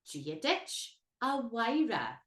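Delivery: slow "Gia dich a Wyra", W sound for M H; Irish greeting demo. Shown as a demonstration. Teacher shows the W sound, slow. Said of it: "To address someone".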